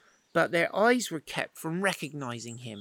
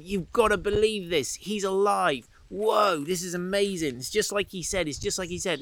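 higher, breathless excited rush; bursting with the good news, higher; super excited; 4 semitones higher than usual. Acted. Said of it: "And they're all super excited".

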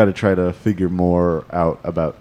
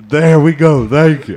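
angry soccer mom voice; 5 semitones higher, 5 dB louder than usual. Acted. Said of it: "That was your angry soccer mom voice".

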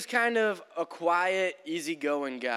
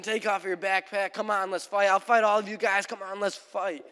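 mock combative goading, raised pitch; worked-up challenge; 3 semitones higher than usual. Angry hiker challenging the whole group, mock belligerence. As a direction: lightly imitate a man demanding a fight. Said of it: "there was no calming this guy down".

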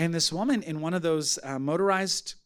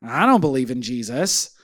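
disbelieving sister; 5 semitones lower, 6 dB louder than usual. Retold or imitated. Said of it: "her sister is standing there going".

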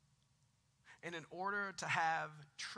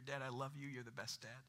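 soft whisper; 4 semitones lower, 6 dB quieter than usual. Retold or imitated. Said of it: "she whispered in my ear".

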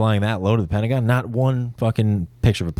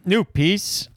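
high silly voice; 9 semitones higher than usual. Acted. Joking chant of the phrase.

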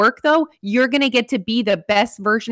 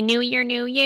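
mocking slogan; 2 semitones higher, 5 dB quieter than usual. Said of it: "how annoying it is when people say".

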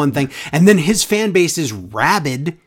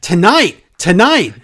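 mock loud correction; 3 semitones higher, 6 dB louder, slower than usual. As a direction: overact the frantic interruption. MVP correcting Lashley, mocked.

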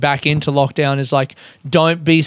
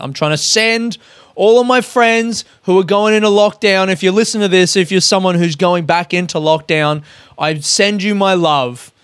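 raised voice; 4 semitones higher than usual. Real, not acted. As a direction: lift the voice up to get through the awkward sincerity. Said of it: "I'm raising my voice right now".

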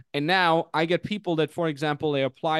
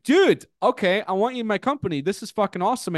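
retold excitement; 5 semitones higher than usual. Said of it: "So I'm like".

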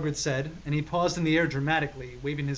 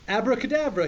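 loud, higher mock magic yell; hammed-up yell; 7 semitones higher, 5 dB louder, faster than usual. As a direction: belt out the spell like a cheesy wizard. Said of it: "he yelled at Snape".

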